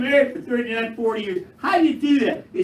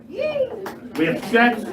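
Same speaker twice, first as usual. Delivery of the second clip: drawn-out; 11 semitones higher, much slower than usual. Real, not acted. Comic slow delivery.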